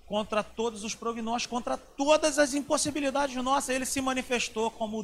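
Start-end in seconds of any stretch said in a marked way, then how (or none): none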